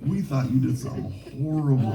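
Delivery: high-pitched amazed recounting; mock hysterical. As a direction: imitate inmates marveling in relieved disbelief. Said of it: "like, all hysterical".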